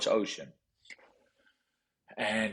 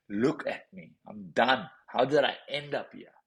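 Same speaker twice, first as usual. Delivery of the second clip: higher, exasperated outburst retelling a plea; mildly raised voice, reliving anger at God; retold angry yell; 4 semitones higher, 5 dB louder than usual. Man arguing with God after losing everything, retold angry yell. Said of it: "I was yelling at God".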